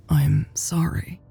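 soft, halting apology; unsure, barely voiced sorry; hesitant. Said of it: "Louise said hesitantly".

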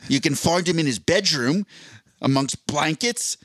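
Australian wildlife narrator, lightly done; Steve Irwin. Acted. Wildlife host describing the speaker's habitat, loose Australian impression. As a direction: present an animal in a tentative Australian accent. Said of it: "I don't think I can do the Australian accent".

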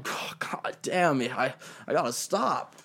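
whispered under the breath, slow; slow whispered groan of defeat; mock whisper. Mocked podcast host muttering.

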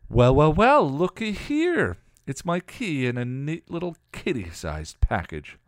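high, loud, drawn-out villain's taunt; gloating hell god. Acted. Hell god looms over her trapped prey, gloating loudly. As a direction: sing out the gloat, high and slow at first.

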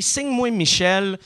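«Signe-moi Michel» said clearly for spelling; spelled-out promo code. Shown as a demonstration. Host giving the promo code, clear dictation. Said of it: "C'est signe, trait d'union".

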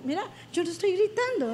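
quick, insistent denial; protesting not shouting. Retold or imitated. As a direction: insist you are not shouting, voice rising. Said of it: "baja la voz porque estás gritando".

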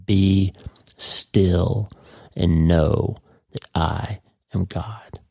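slow, weighty words with hard pauses, no real yell; mock thundering command. Pastor voicing God stopping the war, slow and commanding. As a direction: halt after each word, commanding without shouting. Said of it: "He's yelling".

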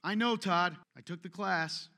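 smug brush-off. Retold or imitated. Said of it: "you don't like to be taught".

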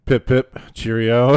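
put-on same voice, barely any British accent; a British accent that changes nothing. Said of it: "my British accent".

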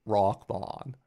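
mock Maine accent, broad vowels. Shown as a demonstration. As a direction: say "Rock man" like a Mainer. Echoes Maine rock man in accent.

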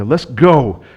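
mock eager husband, a loud push; rally her like a keen new husband.

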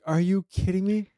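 hammed-up are-you-kidding-me; incredulous retort. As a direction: replay the moment you couldn't believe it. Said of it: "I'm like".

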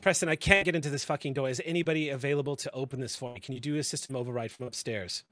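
loud, exasperated call over the radio; frustrated shout. Acted. Chief yells at the director for an override, loud and angry. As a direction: vent the anger, demand help.

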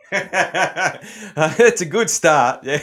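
said through a real laugh, high and loud. Real, not acted. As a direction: laugh out the words, amused. Laughing at guest's Aussie answer.

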